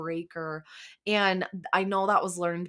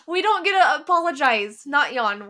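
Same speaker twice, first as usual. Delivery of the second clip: bursts out laughing, then talks through it, louder and higher; laughing at herself; 6 semitones higher, 9 dB louder than usual. Real, not acted. Host laughing at her own yawn mix-up, real laugh. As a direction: laugh off the slip, then push on.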